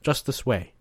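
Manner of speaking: cooing. Acted. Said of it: "It cooed".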